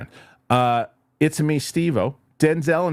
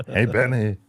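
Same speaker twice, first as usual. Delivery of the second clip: laughing quote. Retold or imitated. Laughing quote of movie line.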